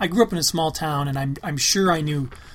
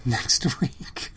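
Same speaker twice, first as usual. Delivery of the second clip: echoed sign-off; 3 semitones lower, 4 dB quieter than usual. Retold or imitated. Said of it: "That's how he says it".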